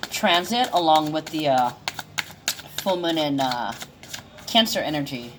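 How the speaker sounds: halting, with filler sounds and gaps; stuttering. Real, not acted. Astrologer losing the thread of a forecast, stuttering. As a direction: stumble along, pausing to find each next word. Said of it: "Sorry, I'm stuttering".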